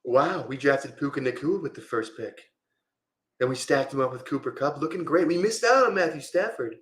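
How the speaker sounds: lightly voiced amateur presidential impression; Donald Trump. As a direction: have a modest go at a Trump voice. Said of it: "my Trump is not that great".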